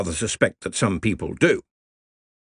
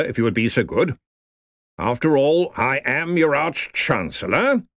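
blustering colonel; 4 semitones higher than usual. Acted. Ridcully asserts authority.

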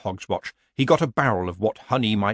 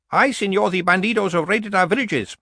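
put-on higher, hat-in-hand Mexican accent; mock Spanish peasant; 9 semitones higher, 4 dB louder than usual. A narrator's reading. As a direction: play the humble peasant pleading for help. Mock movie peasant aside.

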